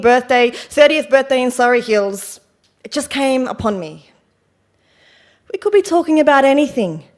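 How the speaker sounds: lightly acted confessional monologue, defensive and wry; Bernadette. Troubled woman tells the audience why she had a breakdown, lightly acted, wryly defensive. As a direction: explain yourself with emphatic bursts, then rueful drops.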